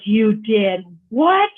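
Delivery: stunned disbelief. Retold or imitated. Dad's jaw dropped at news.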